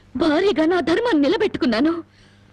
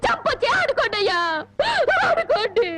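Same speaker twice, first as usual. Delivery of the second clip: crying rebuke; 3 semitones higher than usual. Acted. Wife scolds gambling husband, crying.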